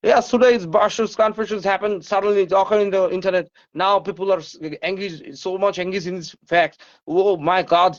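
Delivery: lightly put-on American English, slow and sloppy; হালকা নকল American ইংরেজি; mock American English. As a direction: parody a careless American speaker, drawn out. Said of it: "তো তোমরা এইভাবে English বলো".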